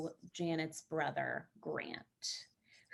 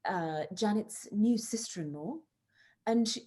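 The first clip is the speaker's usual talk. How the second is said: put-on a shaky stab at an English accent that drifts Australian; attempted English accent. Actress asked by the host to introduce her character in an English accent. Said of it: "I just became Australian".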